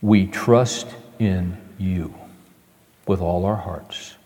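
low, soft, slow prayer; quiet prayer. Real, not acted. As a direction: pray gently and reverently. Closing prayer.

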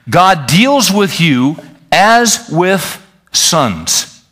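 scripture reading. Acted. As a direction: proclaim the verse to the church. Reads Hebrews to congregation.

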